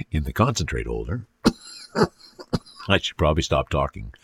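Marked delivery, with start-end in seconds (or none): 1.4-4.1 talking through coughs; words broken by coughing fits. Real, not acted. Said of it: "until I finish coughing".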